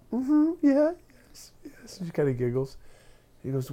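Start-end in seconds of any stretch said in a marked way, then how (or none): 0.1-2.0 put-on high, coy old-lady voice; dainty high yeah fading to a giggly whisper; little old lady. Little old lady shyly admitting to the reporter, coy and high. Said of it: "this little old lady answers".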